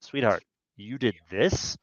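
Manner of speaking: quiet reproach; accusing tone. Shown as a demonstration. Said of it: "Those are the same words, but they mean very different things".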